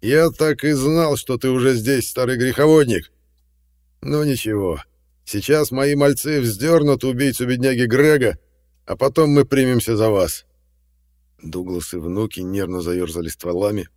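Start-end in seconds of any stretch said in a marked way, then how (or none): 0.0-10.4 loud, gloating glee; enjoy the threat out loud; jolly menace. A narrator's reading. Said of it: "весело заорал он".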